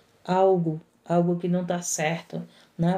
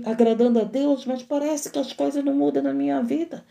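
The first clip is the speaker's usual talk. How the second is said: discouraged believer; 3 semitones higher than usual. Retold or imitated. Preacher voices a listener's complaint, mock lament. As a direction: whine that nothing changes. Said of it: "Talvez tu tá dizendo".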